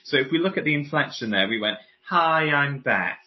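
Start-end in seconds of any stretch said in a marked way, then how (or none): 2.1-3.2 slow, with "Beth" dropping in pitch; falling on name. Retold or imitated. Voice coach mimicking an introduction, falling on "Beth". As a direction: let "Beth" sink down at the end. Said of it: "the inflection came down on the name".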